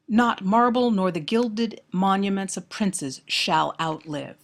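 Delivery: measured, slow verse reading; poem recitation. Acted. Lecturer quotes the sonnet to students, poem recitation.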